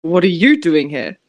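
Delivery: put-on hammy French accent redo; low, loud mock French accent. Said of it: "French accent".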